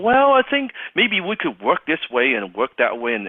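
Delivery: eager prospect. Retold or imitated. Prospect explaining how they could work together, eager. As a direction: jump in eagerly to make it work. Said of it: "every single salesperson they talk to is all enthusiasm".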